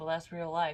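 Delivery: ordinary delivery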